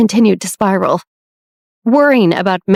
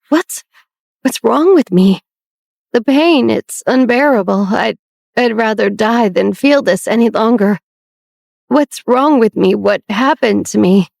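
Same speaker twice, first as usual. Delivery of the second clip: suffering sister; 2 semitones higher than usual. Acted. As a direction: let the pain push every word up. Melanie voiced in pain.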